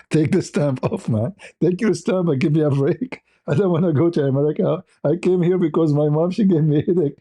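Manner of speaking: playful fed-up plea; retold pleading protest. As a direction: argue comically to get out of it. Retold argument over the fee.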